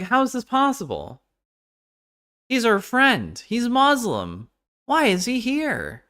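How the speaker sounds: high squeaky mock disbelief; mock incredulous hosts. Mocking the hosts' baffled outrage in a high voice. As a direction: play them as baffled and shrill.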